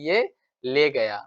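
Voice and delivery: slow, drawn-out mock lament. Teacher voicing a mother mourning her daughter, slow mock lament. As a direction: drag the words like a grieving mother. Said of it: "ये कह करके वो क्या करेगी? शोक करेगी".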